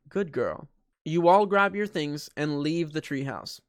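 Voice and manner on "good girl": low quiet take. Shown as a demonstration. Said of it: "it was more like".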